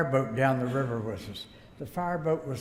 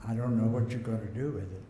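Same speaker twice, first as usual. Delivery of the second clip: quick, amused comeback through a laugh; tossing the reply back with a chuckle; cheeky laughing defiance; laughing retort; 4 semitones lower, faster than usual. Retold or imitated.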